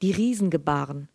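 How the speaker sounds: measured literary reading aloud; Lesung. A narrator's reading. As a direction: read the story evenly to an audience, in clear phrases. (ruhig vorgelesene Erzählung)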